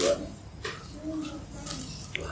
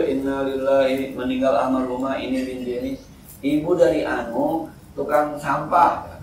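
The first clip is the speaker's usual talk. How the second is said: mock death announcement. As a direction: intone it like a mosque death notice. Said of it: "ketika diumumin itu". (pengumuman duka yang dibacakan pelan dan khidmat, sedikit dibuat-buat)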